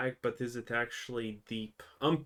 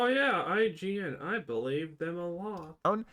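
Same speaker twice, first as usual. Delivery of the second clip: mock-impressed, pitched up; sarcastic trust; 5 semitones higher than usual. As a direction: feign belief in an outlet you distrust.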